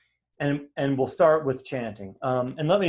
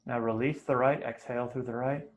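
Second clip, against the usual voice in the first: soft, brief cues between long silences; quietly pace each breath, a touch of meditation voice; guided breathing; 6 semitones lower, 5 dB quieter than usual. Real, not acted. Teacher counting students through nostril breathing, soft meditation guiding.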